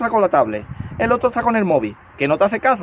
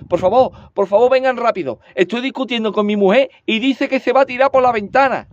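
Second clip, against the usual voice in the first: nervous; 3 semitones higher than usual. Acted. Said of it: "todo nervioso".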